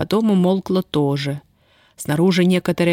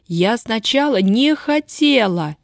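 wailing; 5 semitones higher, slower than usual. Acted. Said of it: "Танька выла взахлёб".

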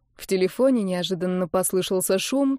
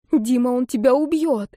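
испуганный крик, выше и громче; кричит в страхе за Диму; 5 semitones higher, 4 dB louder than usual. A narrator's reading. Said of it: "крикнула она почти без перехода". (Ольга в страхе кричит Никите, громко)

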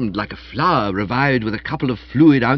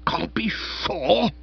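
bristling; 8 semitones higher, much slower than usual. Acted. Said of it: "Spode bristled like a hornet".

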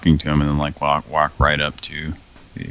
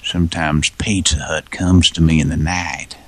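mock seductive. Sultry mock Pizza Hut romance.

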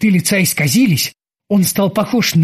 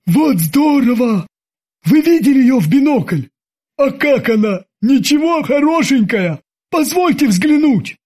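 high, eager gushing; giddy sidekick begging to look; excited; 8 semitones higher than usual. A narrator's reading. Babs excited about a woman.

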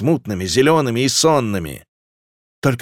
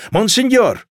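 very high, drawn cry; high woman's wail; desperate calling out; 10 semitones higher, 4 dB louder, slower than usual. A narrator's reading. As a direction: hail his lordship in distress. Townswoman runs up pleading.

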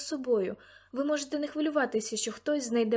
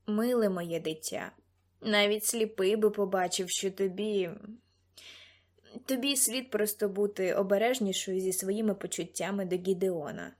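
put-on understated older-mentor voice, full of concern; concerned fatherly mentor; 2 semitones lower than usual. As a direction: gently caution a young girl in a mentor's voice.

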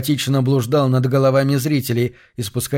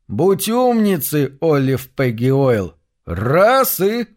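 coaxing uncle voice; 3 semitones higher, much slower than usual. Acted. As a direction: urge her like a child. Buddy urging her to drink.

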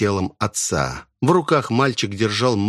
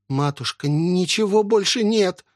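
higher pleading cry; desperate daughter-in-law; 8 semitones higher than usual. Acted. Асами telling the old woman there is nothing left, pleading.

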